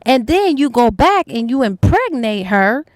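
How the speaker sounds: retold indignant dad's rant, stressed words swinging up; going off. Father confronting his daughters' lover, retold indignant telling-off. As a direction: tell someone off as an outraged father, mildly acted. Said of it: "the father went off".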